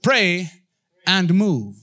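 loud chant-like pray and move; punchy congregational call; call and response. Shown as a demonstration. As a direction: lead the crowd to repeat. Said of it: "Say with me".

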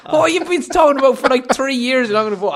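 high outraged quote; mate's voice, high and loud. Retold or imitated. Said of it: "She was like".

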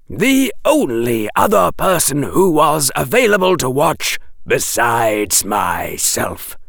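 a dry professor correcting the rescuer; Quirrell lecturing. Acted.

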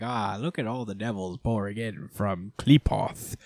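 soft gloating villain voice; hushed, self-satisfied villain with a cackle; smug villain Morris. Retold or imitated. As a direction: savour the chaos like a pleased schemer. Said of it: "just like".

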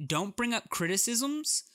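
high, slow, drawn-out warning; mock high emphasis. Shown as a demonstration. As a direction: sing it out in a silly high voice. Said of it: "but two".

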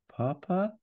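put-on high, questioning child voice; small son calling for his father; little boy. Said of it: "And the boy says".

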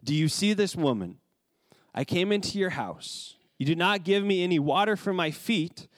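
measured reading of the Gospel; scripture reading. Acted. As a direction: read it out as holy text. Reads scripture passage aloud.

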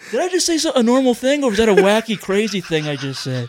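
mock-amazed at your own wackiness; wackadoo act. Comic plays wacky for cohost, mock-amazed. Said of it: "You like when I wackadoo".

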